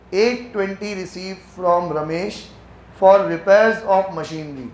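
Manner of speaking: very slow, deliberate reading aloud; slow dictation. Shown as a demonstration. Teacher reading the accounting question to the class, very slowly. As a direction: read the question out word by word.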